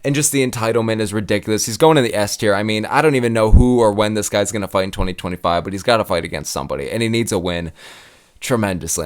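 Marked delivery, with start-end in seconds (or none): 3.9-9.0 winded, breathing hard. Real, not acted. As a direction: talk while short of breath. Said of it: "I'm out of breath".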